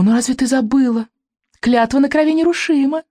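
high, sly witch voice; cooing witch. A narrator's reading. The witch reminding Kamikaze of the oath, a high sly coo. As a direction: gloat sweetly like a witch. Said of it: "проворковала ведьма".

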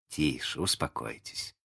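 soft, low calming voice; gentle, hushed shushing; hushing. A narrator's reading. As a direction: quietly settle the excited children. Wendy hushes the excited boys.

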